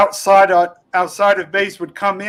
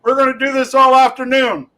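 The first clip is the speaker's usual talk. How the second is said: drill instructor yelling; 5 semitones higher than usual. Retold or imitated. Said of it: "he's yelling at us".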